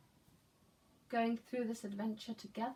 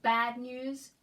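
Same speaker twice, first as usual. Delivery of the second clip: yelled; 8 dB louder than usual. Shown as a demonstration. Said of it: "Do you think he's yelling".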